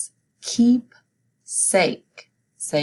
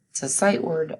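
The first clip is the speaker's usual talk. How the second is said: usual speaking voice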